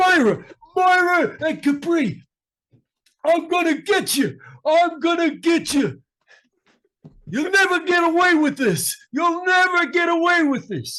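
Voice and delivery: very high, shrill, loud character voice. Sending a message to Myra and Capri as asked: Chubo voice. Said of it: "a special message that he would like to send to Myra and Capri?".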